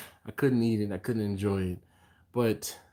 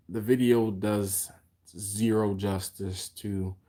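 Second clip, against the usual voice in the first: words stretched by a yawn; slower than usual. Real, not acted. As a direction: talk through a big yawn. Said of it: "Sorry, the big yawn".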